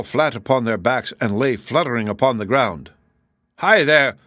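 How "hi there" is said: louder, higher indignant hail; raised-voice challenge; calling out. A narrator's reading. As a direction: call out sharply to get their attention. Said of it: "called one of them".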